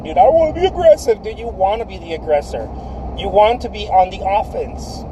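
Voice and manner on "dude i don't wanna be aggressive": mock timid objection. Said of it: "A lot of people are like".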